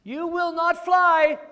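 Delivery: high, loud, slow squeal; slow shouted pig line; loud Piggy. Acted. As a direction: insist it like a stubborn little pig. Piggy voiced in picture book.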